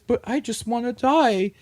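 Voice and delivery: hammed-up gloomy lament; mock despairing werewolf. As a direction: sigh it out like a doomed monster. Werewolf voiced wishing to die.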